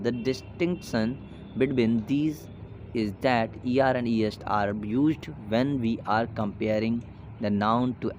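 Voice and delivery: slow, careful reading of the English rule; slow textbook reading. Acted. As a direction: read the grammar rule out slowly, word by word. Reads rule text from the book. (धीमी गति से किताब का नियम पढ़ना)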